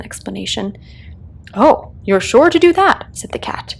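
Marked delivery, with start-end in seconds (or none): 1.5-3.1 a hint of a grinning cat, teasing; lightly voiced Cheshire Cat, amused. The Cat answers lost Alice, a touch of sly amusement. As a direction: tease her gently as the cat.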